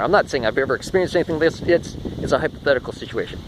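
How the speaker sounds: short of breath, winded. Real, not acted. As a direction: talk while catching breath. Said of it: "I gotta catch my breath 'cause I'm out".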